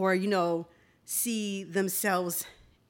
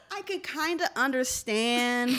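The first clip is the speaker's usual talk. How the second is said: trying not to laugh; 3 semitones higher than usual. Real, not acted. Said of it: "I'm trying to be serious".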